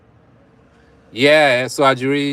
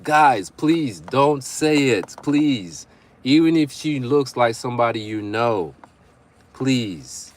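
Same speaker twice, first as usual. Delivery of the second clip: slow, drawn-out plea with raised pitch; emphatic pleading; 3 semitones higher, slower than usual. Real, not acted. Streamer begging guys not to use the line, pleading. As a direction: beg them, leaning on each word.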